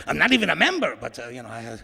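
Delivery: imitating a Latino man's accent; put-on Latino accent. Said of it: "I don't know why I'm doing that accent".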